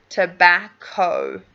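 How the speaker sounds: tobacco spelt out slowly, middle a as in cat, o as in phone at the end; teacher drawing out tobacco syllable by syllable; slow model tobacco. Shown as a demonstration. Teacher correcting a student's pronunciation, slow and deliberate. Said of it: "a as in cat".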